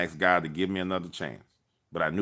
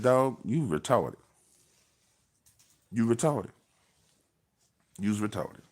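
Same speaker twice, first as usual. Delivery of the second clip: offensive insult; 4 semitones higher, slower than usual. Retold or imitated. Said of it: "I was real offensive".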